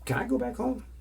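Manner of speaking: high, pleading little voice. Retold or imitated. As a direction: whine to go home. Scared guy asks to leave.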